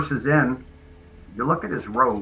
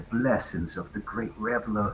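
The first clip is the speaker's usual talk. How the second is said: in-character whisper, quieter; 2 semitones lower, 10 dB quieter than usual. Leaning close to a bound prisoner, whispering in her ear. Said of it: "whisper in her ear only so she could hear".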